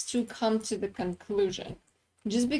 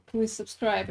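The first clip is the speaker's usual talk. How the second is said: flat mechanical robot monotone; robotic voice. Retold or imitated. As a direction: say it like a machine. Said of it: "in a robotic voice".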